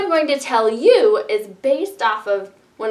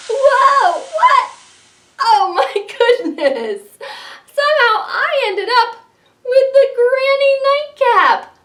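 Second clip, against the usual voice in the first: high, loud amazed exclaim; shocked to find the nightcap; surprised; 10 semitones higher, 5 dB louder than usual. Acted. Finds herself in the nightcap.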